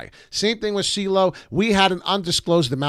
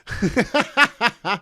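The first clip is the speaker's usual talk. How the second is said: falling burst of laughter; helpless laugh trailing down; real laugh; 6 semitones higher than usual. Real, not acted. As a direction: let the laugh spill out. Still laughing at joke.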